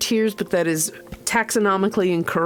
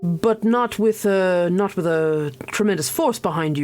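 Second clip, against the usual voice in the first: lightly lower, hushed conspiratorial noble; conspiratorial lord; 3 semitones lower than usual. Acted. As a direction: confide the plan slyly, half-whispered. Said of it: "very conspiratorial".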